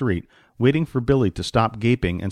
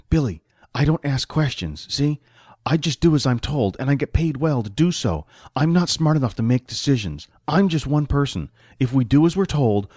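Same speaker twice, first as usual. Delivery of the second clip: lightly voiced sidekick explaining himself; a touch higher, setting a friend straight; money-minded sidekick; 3 semitones higher than usual. Voices Jack in the story.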